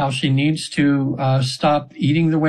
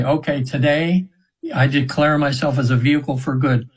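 declaration. Shown as a demonstration. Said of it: "and just say".

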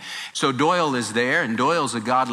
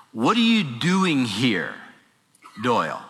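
voice of the Lord. Retold or imitated. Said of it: "as if the Lord said to him".

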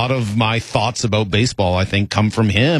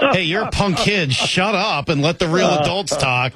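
higher, scolding mock manager brushing off a kid reporter; a hint of a stern manager, pitched up; 7 semitones higher than usual. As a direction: play the gruff manager telling the kid to shut up, hammed-up. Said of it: "a stern look from a manager who's like".

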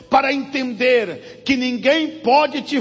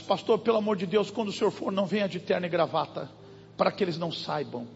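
hushed plea; 5 semitones lower, 8 dB quieter, much faster than usual. Retold or imitated. Frightened woman begging secrecy.

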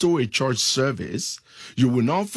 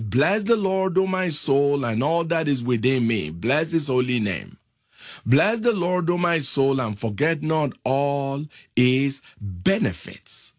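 fervent scripture reading. Acted. Preacher reading Psalm 103 to the congregation, fervent and lifted. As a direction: read the psalm out like a praise call.

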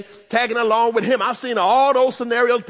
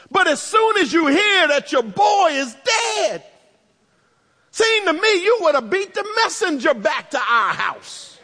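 Mary's hurt complaint; 4 semitones higher than usual. Acted. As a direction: let her grievance build into protest. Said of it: "her attitude is".

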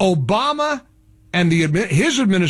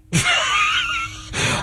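a sharp burst of derisive laughter; mocking laugh. Real, not acted. Host laughing at the networks' boycott, mocking burst of laughter.

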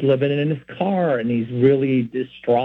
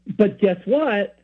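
slow, raised, almost vindictive tease; 6 semitones higher, slower than usual. Retold or imitated. Friend about to prove the speaker wrong, almost vindictive. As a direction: draw it out as if proving someone wrong. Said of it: "in that tone of voice".

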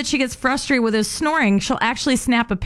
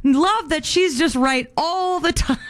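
sweet sarcasm; 5 semitones higher than usual. Acted. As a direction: lay the sweetness on, mildly sarcastic. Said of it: "Sweet sarcasm".

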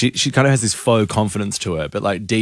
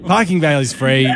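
calling out; 5 semitones higher than usual. Retold or imitated. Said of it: "and then you go".

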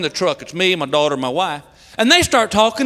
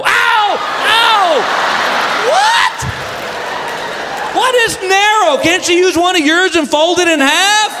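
high yelps of mock pain; horrified outburst; 6 semitones higher than usual. Husband horrified by wife's pad request, high and yelping. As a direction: squeal in disbelief, then protest.

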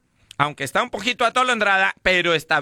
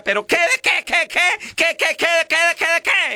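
much higher, rapid-fire nag; nagging wife; 10 semitones higher than usual. Retold or imitated. Wife firing questions at the drunk, very high. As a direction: rattle off questions like an angry wife.

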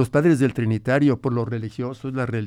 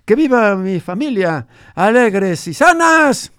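lightly voiced grandfather, a bit higher; old grandfather; 5 semitones higher, 3 dB louder than usual. Grandfather recalls his ranch for the radio host, lightly voiced old man. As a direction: tell it as the old abuelo remembering his ranch.

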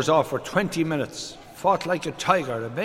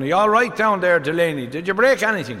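mild call down a well, pitched up; shouting down; 3 semitones higher than usual. Acted. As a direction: call down to a fallen friend, lightly acted. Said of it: "O'Sullivan shouted down".

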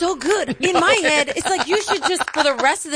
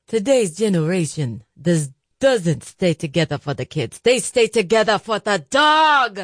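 Jersey Italian; 3 semitones lower than usual. Pretend. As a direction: lower Jersey Italian accent, stretched final word. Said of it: "like a Jersey Italian".

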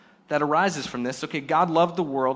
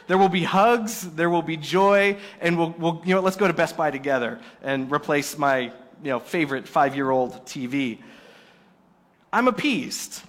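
mock delighted; 4 dB louder than usual. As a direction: ham up being bought off. Appeased pastor gushing over check.

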